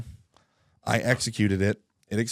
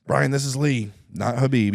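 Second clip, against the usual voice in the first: a raised, louder retry of the caller's voice; second Lee impression; 5 semitones higher, 5 dB louder than usual. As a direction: try his voice again, a bit higher and louder. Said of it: "I don't know how to do the impression".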